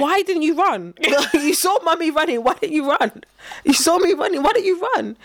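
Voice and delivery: exasperated mock reproach, pitch climbing; mock scolding mum. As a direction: lightly play a mum demanding answers. Mum scolds child for not running.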